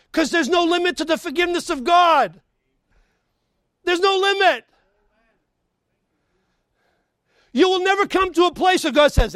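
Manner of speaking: high, loud preacher's proclamation; forceful preaching. Real, not acted. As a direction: proclaim it to the whole congregation.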